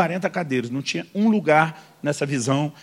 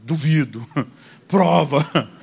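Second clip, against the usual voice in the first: inner mock dare; 2 semitones lower, much slower than usual. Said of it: "Só faltou eu dentro de mim dizer".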